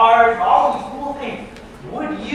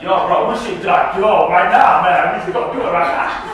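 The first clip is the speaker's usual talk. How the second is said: hyped urging, louder; eager friend; 6 dB louder than usual. Retold or imitated. Friend at one a.m. pushing a dumb idea, hyped.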